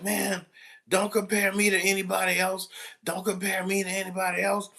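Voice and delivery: student defying the teacher, high indignant voice; defiant student. Retold or imitated. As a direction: imitate a defiant teen. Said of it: "so he was like".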